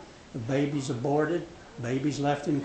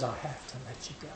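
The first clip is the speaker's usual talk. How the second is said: tearful, broken; 3 semitones lower, 12 dB quieter, much faster than usual. Acted. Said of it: "with tears running down his eyes".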